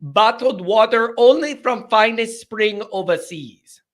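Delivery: put-on lampoon a pampered rich fan in a made-up accent; hammed-up snobby made-up accent; mock posh accent. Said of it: "I don't know what accent that is".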